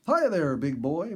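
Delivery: greeting a big bear cub, calling out; called greeting. Retold or imitated. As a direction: call out a hello to the bear cub. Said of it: "Bobby called in greeting".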